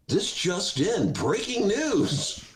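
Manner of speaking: slow, sarcastic breaking-news read; slow mock news anchor; mock newscaster. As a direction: announce it like a TV anchor.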